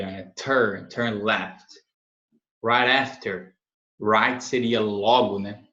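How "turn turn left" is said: "Turn" begun with a released burst of T; impulse on T. Shown as a demonstration. Teacher drilling "turn left" with an impulse on the T. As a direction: give the T of "Turn" a push of air. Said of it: "aquele impulso de".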